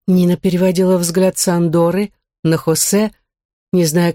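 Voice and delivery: plain reading voice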